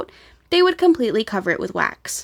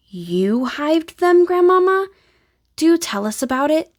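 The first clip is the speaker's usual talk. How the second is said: put-on surprised child; 7 semitones higher than usual.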